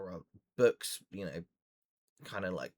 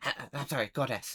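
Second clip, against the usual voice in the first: slightly raised, flustered gnome voice; apologetic gnome; 4 semitones higher, faster than usual. Acted. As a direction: stammer a correction to a goddess. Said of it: "looks at you again and goes".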